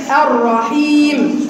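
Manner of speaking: very slow الرحيم, الرحمن, الرحيم, r widened with one tap; slow correct r. Shown as a demonstration. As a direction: stretch each word, tap the r once. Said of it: "تكرارة واحدة فقط".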